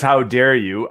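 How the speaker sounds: a hint of real offense; mock indignant. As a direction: demand it like you mean it. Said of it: "But if he comes in and says".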